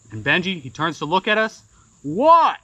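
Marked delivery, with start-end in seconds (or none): 2.0-2.6 high, louder call across the water; calling back. Retold or imitated. Benji calling back to the shore, high and loud. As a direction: shout the question back. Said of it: "he calls back".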